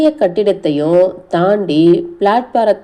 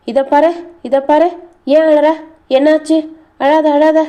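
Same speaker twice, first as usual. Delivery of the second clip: fussing grandmother; 9 semitones higher than usual. Acted. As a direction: hush the child, fretting over her tears. Grandmother soothing crying girl.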